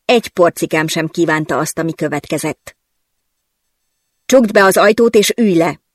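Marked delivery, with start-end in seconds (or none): 4.3-5.8 louder, curt boss command; impatient order. Acted. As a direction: snap the order, short of patience. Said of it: "utasított türelmetlenül". (türelmetlen, parancsoló hangon)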